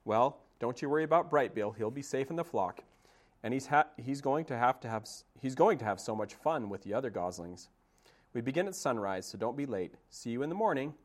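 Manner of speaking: high, fussy goose voice; chatty old goose. Acted. Old goose telling Roz about swimming day, chatty.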